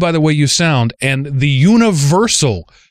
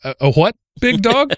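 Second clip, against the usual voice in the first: puzzled classmate; 10 semitones higher than usual. Retold or imitated. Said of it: "classmates said".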